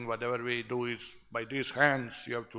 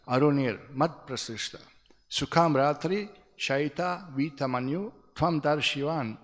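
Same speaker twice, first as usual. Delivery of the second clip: measured scripture recitation; Sanskrit verse recitation. Real, not acted. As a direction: recite the shloka phrase by phrase.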